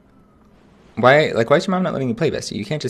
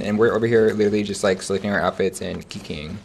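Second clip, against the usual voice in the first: chewing while talking; mouth full; 2 semitones lower than usual. Real, not acted. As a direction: talk through a mouthful of food. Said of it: "I'm chewing with my mouth full".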